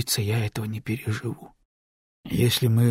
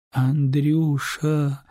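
long drawn-out moan of Андрюша; Андрюша moaned very slowly; 3 semitones higher, much slower than usual. Acted. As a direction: stretch the name into a weary groan. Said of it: "простонала Люба".

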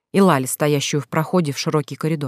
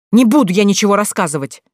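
stubborn shout; 4 semitones higher, 5 dB louder than usual. Acted. Сестра упрямо кричит.

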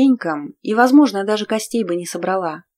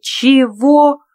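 indignant yelp; 5 semitones higher, 6 dB louder than usual. Acted. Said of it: "хотелось завопить".

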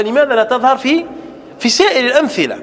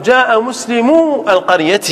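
slow example. Shown as a demonstration. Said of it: "فنقول".

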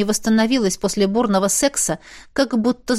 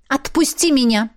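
firm demand, slightly higher; 4 semitones higher than usual. A narrator's reading. Miranda demands Jav let her go, firm. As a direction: insist on release. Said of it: "потребовала Миранда".

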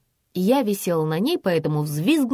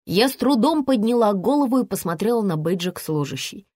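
plain reading voice

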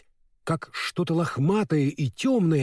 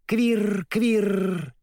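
higher-pitched squirrel call; mocking squirrel chatter; 5 semitones higher than usual. A narrator's reading. Squirrel calling from a treetop, mocking. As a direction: chirr like a teasing squirrel. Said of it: "насмешливое чоканье белки".

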